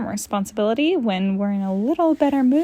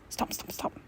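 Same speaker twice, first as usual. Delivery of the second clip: whispered stop; 15 dB quieter than usual. Acted. Whispered aside.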